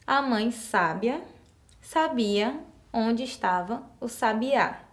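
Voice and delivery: sábia stressed on sá, sabiá stressed on á; careful slow demo of the correct sentence; slow correct reading. Shown as a demonstration. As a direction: read it slowly with the right stresses. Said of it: "as palavrinhas acentuadas de forma correta".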